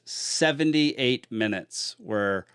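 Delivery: slow words through a yawn. Real, not acted. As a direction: talk while yawning. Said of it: "sorry, I'm yawning".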